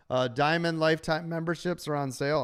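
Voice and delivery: hoarse, worn-out voice; losing voice. Real, not acted. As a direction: talk through a tired, hoarse throat. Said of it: "I'm losing my voice".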